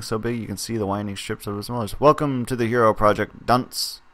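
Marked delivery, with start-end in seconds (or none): 2.0-4.0 talk show host. Acted. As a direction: announce it like a TV host. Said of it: "he says, smiling".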